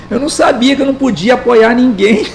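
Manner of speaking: sarcastic mock innocence; lightly ironic aside. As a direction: feign surprise, dripping irony. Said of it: "Bem irônico".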